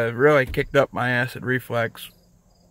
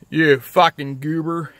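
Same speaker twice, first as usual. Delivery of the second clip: slow, louder teasing jab at himself; mock insult; 4 semitones higher, 5 dB louder, slower than usual. Shown as a demonstration. Man mocking his own toothless face, teasing. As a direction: drawl it out like teasing a buddy. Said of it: "I look like a fucking goober".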